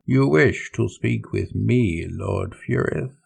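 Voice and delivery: slow, smug and unhurried; calm and smug. Acted. Sorcerer taunting the furious captain over the vox, slow and smug. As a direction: savor every word, utterly unbothered. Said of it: "how calm and smug the primogenitor sounded".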